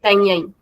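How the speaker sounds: तैं ऐं with each nasal syllable separate; doubled, separated sounds. Shown as a demonstration. Teacher avoiding confusion between conjugations, doubled तैं ऐं. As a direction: say तैं ऐं distinctly as two sounds. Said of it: "double ऐं देके separately".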